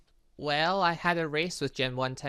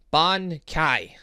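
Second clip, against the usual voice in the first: battle cry, loud and high; shouting; 4 semitones higher, 11 dB louder than usual. Acted. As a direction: yell the attack name. Shouting an attack name.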